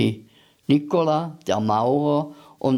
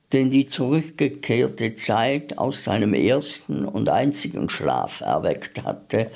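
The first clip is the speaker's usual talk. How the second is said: ordinary delivery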